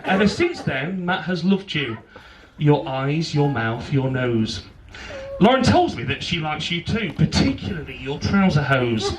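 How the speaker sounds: measured rhyming wedding poem; poem recital. Real, not acted. Best man reads his poem to bride and groom, poem recital. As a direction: recite it line by line with pauses.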